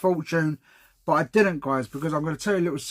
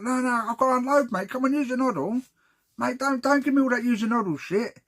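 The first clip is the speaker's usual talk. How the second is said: 1 mock pushy geezer; 7 semitones higher than usual. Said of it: "He said".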